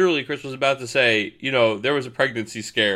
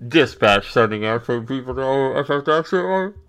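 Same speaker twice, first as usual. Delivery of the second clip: dispatcher radio. Pretend. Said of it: "sound like the fucking New York subway system".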